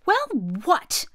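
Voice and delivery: startled reply. Acted. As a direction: blurt it out caught off guard. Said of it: "said my father".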